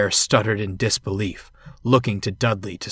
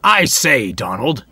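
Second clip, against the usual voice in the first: loud; 3 semitones higher, 7 dB louder than usual. A narrator's reading. Bear hailing Donald so Dudley hears, loudly. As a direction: announce it for others to overhear. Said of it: "he said loudly".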